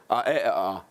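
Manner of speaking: lazy Dundonian dialect, vowels only; Dundonian accent. Shown as a demonstration. Actor showing the audience his hometown speech, Dundonian accent. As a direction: say it in broad Dundonian with consonants dropped. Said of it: "where I come from, you would say".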